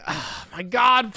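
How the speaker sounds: usual speaking voice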